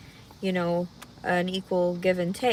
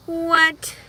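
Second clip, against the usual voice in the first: shocked what; 8 semitones higher, 8 dB louder than usual. Real, not acted. Shocked reaction.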